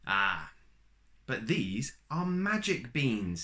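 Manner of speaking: lightly voiced sly little man. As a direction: coax like a sly peddler. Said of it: "said the little man".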